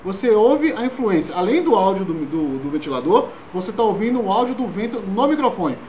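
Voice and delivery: voz com vento do ventilador no microfone; falando pro ventilador. Shown as a demonstration. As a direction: fala com ruído de vento soprando. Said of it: "com o ventilador ligado, direcionado para o microfone". (voz com vento do ventilador no microfone)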